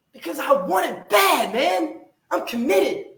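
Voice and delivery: high, loud cry of commitment; shout. Real, not acted. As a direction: shout it from the gut. Motivational rant, shouting.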